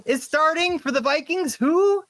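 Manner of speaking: high-pitched, mock-baffled questioning; incredulous. Host baffled by the Vikings' starting quarterback, high incredulous squeal. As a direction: squeal each question in exaggerated disbelief.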